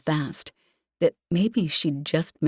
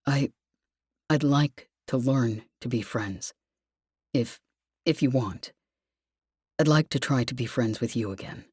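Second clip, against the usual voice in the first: Lev, vulnerable; 5 semitones lower than usual. Acted. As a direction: plead gently, fading at the end. Lev's vulnerable plea.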